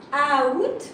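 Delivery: "out" with the A sounded, ah-oot; pronounced as spelled. Shown as a demonstration. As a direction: sound both vowels in "out". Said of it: "you are not pronouncing the A".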